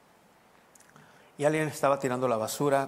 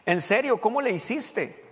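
high, loud, disbelieving question; incredulous insistence; 8 semitones higher, 5 dB louder, slower than usual. Retold or imitated. Acquaintance pressing the pastor for his secret, incredulous. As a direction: press him in raised, drawn-out disbelief. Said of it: "pensaba que estaba bromeando".

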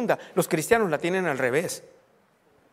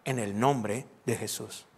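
slow, low closing of a prayer; 7 semitones lower, 4 dB quieter, slower than usual. Shown as a demonstration. Pastor showing how he ends praying, slow low close. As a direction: round off the prayer slowly and quietly. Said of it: "Y al final termino".

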